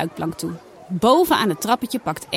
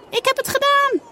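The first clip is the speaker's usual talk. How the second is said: laughing. Acted. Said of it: "zegt ze lachend".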